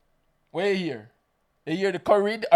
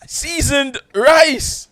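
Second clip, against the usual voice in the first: slow, loud, high, through laughter; laughing example; 8 semitones higher, 8 dB louder, much slower than usual. Shown as a demonstration. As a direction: draw out both words while cracking up.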